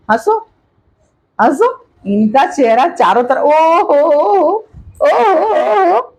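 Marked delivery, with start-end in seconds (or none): 3.4-6.1 high, long drawn-out coos; delighted cooing. Real, not acted. Grandmother fussing over her granddaughter, high delighted coo.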